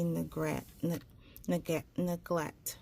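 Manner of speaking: words slurred by a tongue ring; tongue ring catching the consonants; tongue piercing. Real, not acted. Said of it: "this tongue ring".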